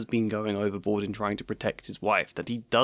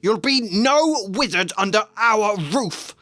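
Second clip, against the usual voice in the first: slow, loud and higher bellow; an uncle bellowing at his nephew; 10 semitones higher, 5 dB louder, slower than usual. Acted. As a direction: roar the rule of the house. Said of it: "Vernon bellowed".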